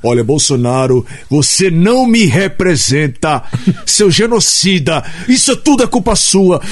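a hint of an indignant activist; Jean Wyllys impression. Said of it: "Jean Willis eu fazia na praça".

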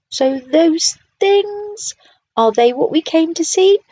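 underwhelmed by a pile of rocks; unimpressed. A narrator's reading.

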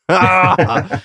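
frustrated, worked-up outburst; worked-up groan. Real, not acted. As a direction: let out a frustrated cry, half laughing. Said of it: "I'm getting worked up".

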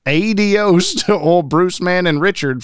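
lightly voiced frontier prospector farewell; old-timey prospector voice. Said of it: "Old timey prospector voice".

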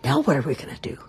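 hushed worried whisper. A narrator's reading. Wife whispering to the cob about the boy. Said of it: "the swan whispered to her husband".

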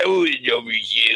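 garbled, mushy mumble; slurred drive-thru customer. Acted. Friend mimicking a garbled order at the drive-thru, slurred. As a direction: order as if the words won't form. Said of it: "went to the drive-thru like that".

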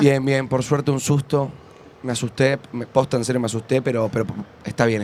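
lightly acted relief, low and subdued; low-pitched, understated excuse-maker; playing the worker. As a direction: pretend you had a scare, slightly hesitant. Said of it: "entro personaje".

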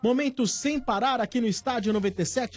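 polished radio announcer promo; sponsor read. Acted. Host introduces the sponsored segment to listeners, announcer read. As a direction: pitch the slogan like an announcer.

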